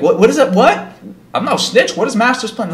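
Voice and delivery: high, loud mock panic; alarmed denial. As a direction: protest in bewildered disbelief. Acted panicked denial to inmates.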